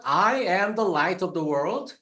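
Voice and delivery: "I am" drawn out slowly and weighted; stress on I am. Shown as a demonstration. Preacher stressing "I am" to his congregation, slow and weighty. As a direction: lean hard on "I am", very slow. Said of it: "특히 I am을 추가로 넣어서 강조합니다".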